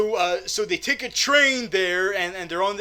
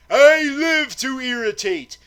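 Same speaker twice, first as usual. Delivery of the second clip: loud, high, theatrical retort; gleeful comeback; 7 semitones higher, 7 dB louder than usual. Acted. Performer answering complaint about irritating voice, gleeful. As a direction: proudly crow it back at the heckler.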